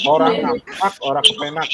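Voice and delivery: Kebumen accent. Shown as a demonstration. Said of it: "please unmute your microphone".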